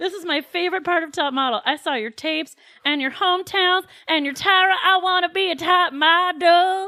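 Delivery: high, slow put-on Southern drawl, stretching out "model". Retelling how Tyra mocks Southern contestants: imitating Tyra's mock Southern accent. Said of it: "her patented making fun of Southern people".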